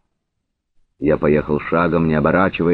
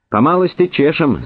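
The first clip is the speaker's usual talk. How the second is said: high-pitched cheerful call; merry shout; 12 semitones higher than usual. A narrator's reading. Horseman riding up to his comrades, merry shout. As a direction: call it out gaily, voice lifted high. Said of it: "закричал он весело".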